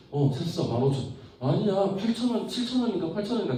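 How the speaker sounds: high-pitched gossiping mom voice; chatting neighbour mothers. Acted. Two mothers comparing book prices, high chatty mom voice. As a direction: play neighbourhood moms, pitched well up. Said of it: "옆집 친구 엄마랑 우리 엄마랑 이야기를 하다가".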